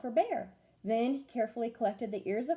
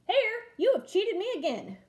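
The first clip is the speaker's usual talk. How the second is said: annoyed; 10 semitones higher, 4 dB louder than usual. Acted. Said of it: "Bear looked at his pile and scowled".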